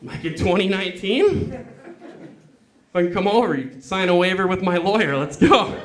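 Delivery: excited. Real, not acted. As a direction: build to an excited shout. Excited comic rant.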